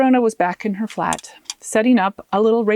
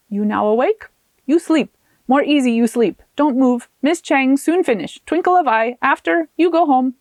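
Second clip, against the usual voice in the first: put-on lightly higher Taiwanese-accented broken English; Taiwanese-accented healer; 3 semitones higher than usual. Miss Chang tells Arona to rest, in a light Taiwanese accent. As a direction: soothe the patient in a brisk Taiwanese accent.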